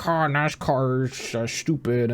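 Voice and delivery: slow, snooty put-on voice mocking F1 fans. Podcaster mimicking smug F1 fans, slow snooty sneer. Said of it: "F one people were like".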